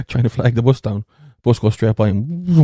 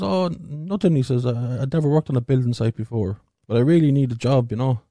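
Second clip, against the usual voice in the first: put-on Chinese voice; 3 semitones higher than usual. Chinese man voiced in joke.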